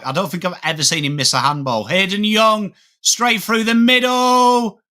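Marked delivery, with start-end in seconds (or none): 1.8-4.8 excited call. Acted. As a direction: lift the voice as he breaks through the middle. Live AFL play-by-play call.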